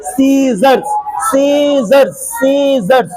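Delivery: "सीजर्स" as "see-zars"; silent c. Shown as a demonstration. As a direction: repeat "सीजर्स" with a long first syllable. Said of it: "क्या पढ़ेंगे".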